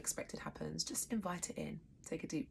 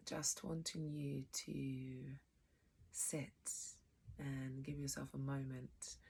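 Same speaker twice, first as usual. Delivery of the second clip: guided meditation. Real, not acted. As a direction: settle them gently into stillness. Leads settling into meditation.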